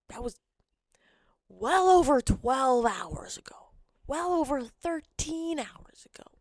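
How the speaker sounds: high breathy whisper; whispered aside. Real, not acted. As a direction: hush it like a confession. Whispered reassurance.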